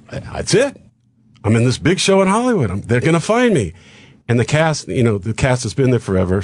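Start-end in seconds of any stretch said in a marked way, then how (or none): 0.1-3.7 lifted, higher-pitched thrill of a newcomer; excited hopeful thought. Retold or imitated. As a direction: relive a moment of hopeful excitement.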